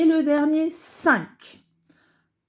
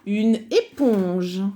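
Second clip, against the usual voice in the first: slow dictation; slower than usual. Shown as a demonstration. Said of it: "Et le on, je".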